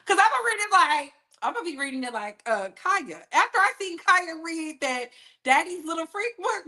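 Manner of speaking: ordinary talk, nothing marked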